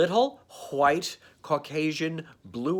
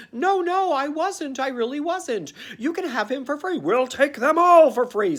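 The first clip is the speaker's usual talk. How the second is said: panicky pleading; 10 semitones higher, 4 dB louder than usual. Acted. Seller pleads with Emperor's man.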